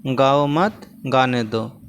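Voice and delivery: गाओ मत together, break, then गाने दो; pause after मत. Shown as a demonstration. Teacher showing the other comma place, pause after मत. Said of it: "अलग-अलग जगहों पर देखिए यहाँ लगा है".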